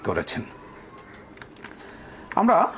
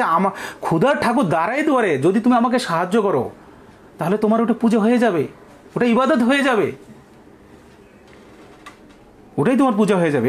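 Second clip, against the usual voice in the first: put-on old beggar's plea; 6 semitones higher than usual. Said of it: "এই জন্য এই বৃদ্ধ লোকটি বলছে".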